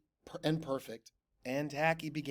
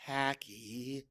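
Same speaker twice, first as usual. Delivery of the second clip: patient; 4 semitones lower, 8 dB quieter than usual. A narrator's reading. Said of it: "they said patiently".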